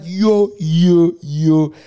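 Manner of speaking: loud alarmed yo; loud frantic yo; panicked. Retold or imitated. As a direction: call out in rising panic. Panic at trending hashtag.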